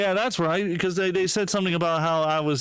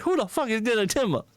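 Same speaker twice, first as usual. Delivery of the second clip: higher-pitched mock bewilderment; baffled retelling; 6 semitones higher than usual. Streamer retells his reaction to a nickname, baffled. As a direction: act out mild, puzzled outrage.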